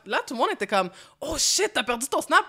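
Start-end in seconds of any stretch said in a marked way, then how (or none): 1.2-2.4 higher-pitched imitation of startled friends; mock shock. Everyone hearing she lost her Snapchat, mock shock. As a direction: react like friends hearing bad news.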